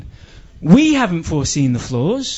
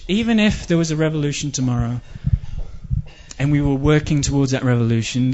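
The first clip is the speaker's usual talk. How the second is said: ordinary talk, nothing marked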